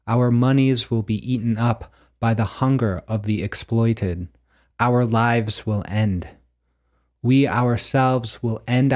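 measured, declaimed poem with deliberate pauses; prose poem reading. Acted. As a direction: read it like a solemn prophecy, phrase by phrase. Reads own prose poem aloud.

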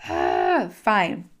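huff, then give in; acted-out fed-up sigh; exasperated surrender. Universe gives in with exasperation.

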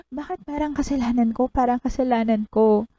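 dramatic sister's hurt plea; reciting movie line. Retold or imitated. Fan reciting Four Sisters scene, dramatic hurt plea. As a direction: act out the wounded movie sister. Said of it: "kayang-kaya ko itong, ano, i-recite".

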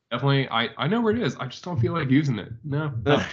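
lightly voiced evasive excuse; a hint of squirming Batman. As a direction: dodge the question, a little too eager. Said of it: "just trying to be like".

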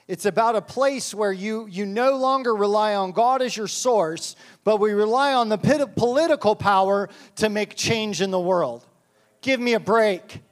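rising into a worked-up rant; fired up. Real, not acted. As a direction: let it heat up till "Give me a break". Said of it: "Sorry, I'm a little fired up".

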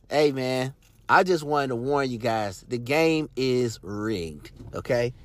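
quiet aside. Real, not acted. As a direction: drop to a slow, soft aside. Confiding aside after the rant.

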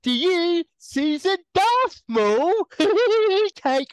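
a hint of mock officiant, teasing; imitating Kerry. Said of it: "You can do my voice".

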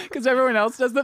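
high voice broken by nervous giggles; woman's inner voice, nervous laugh. Retold or imitated. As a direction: giggle through it, uneasy. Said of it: "in their heads, they were probably like".

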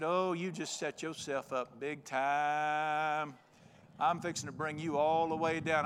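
mock menace. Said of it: "I said".

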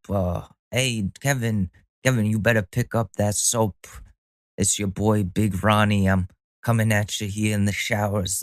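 hammed-up Italian-American New York wise guy; lightly put-on New York Italian accent; shitty Italian accent. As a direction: play a prison shower tough guy with a bad Italian accent. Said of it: "my shitty Italian accent".

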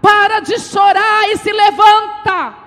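high, loud prophetic proclamation; full-force preaching. Real, not acted. Preacher warning the congregation about the nation, full-force preaching. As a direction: drive each clause out at full volume.

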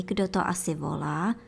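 ordinary delivery, nothing marked

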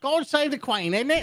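high hammed-up British voice; pompous stage Englishman; mock British accent. Mock British patriotic line.

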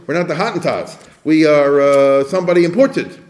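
a lightly voiced proud declaration, chest out; mock proud claim. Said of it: "That's how they would say it".

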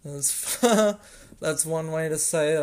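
chuckling through "that's one way to say it"; amused laugh mid-sentence. Real, not acted. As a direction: laugh at your own mix-up as you say it. Laughing at own slip.

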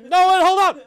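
very loud, high mock bark; drill sergeant. Imitating a castmate's drill sergeant, mock shouted order. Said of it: "you said the drill sergeant".

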